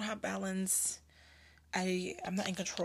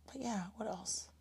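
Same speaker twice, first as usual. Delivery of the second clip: drinking water; 2 semitones higher, 8 dB quieter than usual. Real, not acted. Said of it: "Sorry, I'm drinking water".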